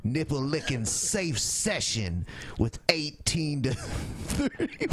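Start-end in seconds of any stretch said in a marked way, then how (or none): 3.6-4.9 words broken by laughter; real laughter mid-word; laughing. Real, not acted. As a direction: read through the giggles. Laughing while reading.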